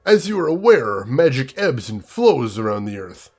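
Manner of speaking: put-on slow, savoring German accent, relishing every vowel; a dragon's envoy savoring each word in a German accent. Envoy to the council, slow savoring German accent. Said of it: "speaks slowly with a deep, melodious German accent".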